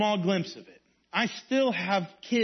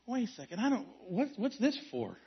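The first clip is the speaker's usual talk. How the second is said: puzzled aside; 7 dB quieter than usual. Retold or imitated. Retold puzzled missionary at dock.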